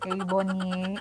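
"Ebony" drawn out in three syllables, ending in nee; pronunciation attempt. Shown as a demonstration. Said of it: "kung anong pronunciation nito".

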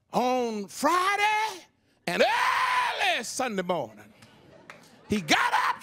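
high, stretched shouted on Friday; shouted testimony. Retold or imitated. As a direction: cry the resurrection out. Woman shouts testimony in church.

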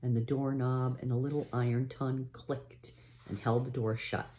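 unhurried read-aloud storytelling voice; story narration. A narrator's reading. Parent reading a pioneer story to a child, storytelling voice. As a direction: read the chapter like a bedtime story.

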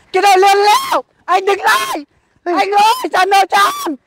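insistent shouted demand; shouting after someone. Acted. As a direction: yell after a fleeing debtor. Collector shouts after fleeing debtor.

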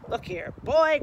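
gruff, loud king growl. Acted. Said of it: "growled the king".

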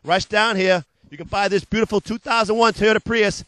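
punchy pitchman patter, loud on the hooks; hard-sell ad read. Acted. Car dealer pitching used cars to TV viewers, hard-sell ad voice. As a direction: sell it like a late-night car ad.

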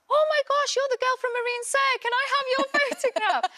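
high, fast excited gush; excited fan. Retold or imitated. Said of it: "people are like".

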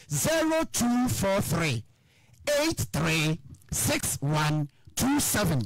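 slow number dictation. Shown as a demonstration. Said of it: "Me number nie".

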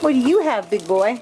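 high, sing-song cooing questions. Real, not acted. Owner asks a puppy what it has, high baby talk.

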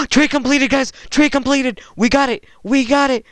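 high, loud burst of triumph; gasp, then shout the good news, thrilled; excited celebration. Real, not acted. Celebrating a completed trade.

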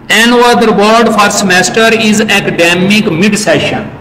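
slow, careful reading of English notes, word by word; slow dictation reading. Acted. Teacher slowly dictating notes to the class. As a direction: read it out slowly so students can write it down.

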